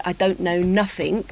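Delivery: lightly imitated Cockney accent; Cockney, with NOTHING said as "nuffink"; real Cockney. Shown as a demonstration. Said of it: "a real Cockney would say".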